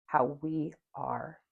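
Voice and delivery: slow, calm meditation voice; guided meditation. Acted. Guiding viewers through a mirror meditation, slow and calm. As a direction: ease listeners into looking at themselves, slowly.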